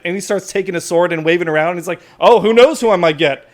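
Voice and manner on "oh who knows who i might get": loud, higher wild threat; Walter Watchman. Acted. Watchman waving his sword around, yelling. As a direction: yell recklessly at the crowd. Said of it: "he starts yelling at you and at the crowd".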